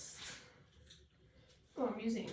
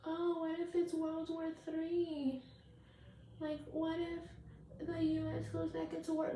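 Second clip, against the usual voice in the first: lightly hammed-up anxious whine; mocking worried voice; 4 semitones higher, 4 dB quieter than usual. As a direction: parody a privileged person panicking. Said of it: "in a position to be scared about".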